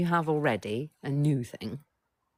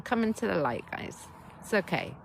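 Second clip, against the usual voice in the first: gentle invitation; 6 semitones higher, 3 dB quieter than usual. Acted. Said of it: "if I'm saying to all of our little children".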